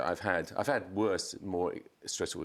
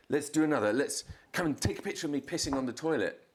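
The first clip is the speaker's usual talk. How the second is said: imitating Courtney; 8 semitones higher than usual.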